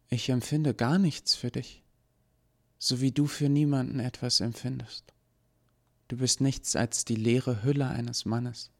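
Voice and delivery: high, calm dismissive voice; cool rejection. Acted. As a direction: tell him he's empty, coolly. Eva rejects the Gnädige.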